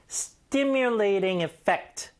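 Stimulating effect spoken very slowly, stress on stim and on fect; slow stress demo. Shown as a demonstration. Teacher stretching the phrase for learners, very slow. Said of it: "요건 뒤에 강세 줘야 됩니다".

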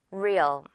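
Real with a muted final sound; light ending. Shown as a demonstration. Teacher modelling for repetition, Real with a reduced ending. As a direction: drop off lightly at the end of Real. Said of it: "소리를 죽여준다고".

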